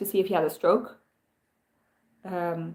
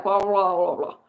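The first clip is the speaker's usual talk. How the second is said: slurred mumble. Retold or imitated. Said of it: "sounds like slurred speech".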